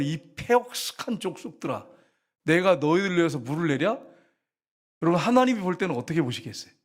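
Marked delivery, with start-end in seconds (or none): 0.0-4.0 mild mock scolding. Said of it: "근데 뭐라는".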